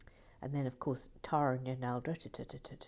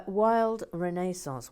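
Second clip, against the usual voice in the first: announcing name; 5 dB louder, slower than usual. Real, not acted. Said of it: "calling out commenter's name".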